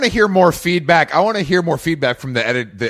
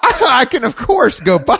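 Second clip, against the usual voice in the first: put-on Cockney accent; 9 semitones higher than usual. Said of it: "a Cockney accent like that".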